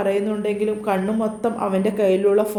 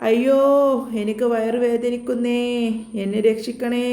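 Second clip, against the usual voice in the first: fake crying; 2 semitones higher than usual. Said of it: "കരയുകയാണ്".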